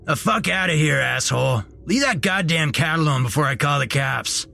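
high-pitched, irate outburst; irate store manager's rant; angry manager. A narrator's reading. Store manager chases off homeless man.

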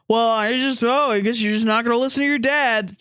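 lightly voiced exasperated boomer; a hint of a griping boomer father; boomer dad. Boomer dad complaining to his grown child, lightly put on. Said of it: "a boomer that is like".

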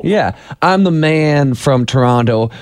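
slow Texas drawl; Texas accent. Retold or imitated. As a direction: drawl it like a Texan. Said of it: "my subtle Texas drawl".

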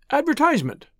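high-pitched, prompt answer; prompt reply. A narrator's reading. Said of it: "replied Tuppence promptly".

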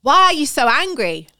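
bad Welsh accent, loud and slow; a terrible attempt at a Welsh accent. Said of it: "That was a terrible Welsh accent".

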